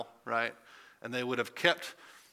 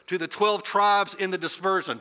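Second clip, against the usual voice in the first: slightly grim general, higher and louder; general addressing soldiers; 5 semitones higher, 5 dB louder than usual. Acted. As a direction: address the troops firmly, without pity. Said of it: "It's like a general talking to his soldiers".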